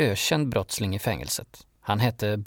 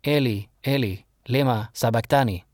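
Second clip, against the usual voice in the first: calling out. A narrator's reading. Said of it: "ropade Jesus".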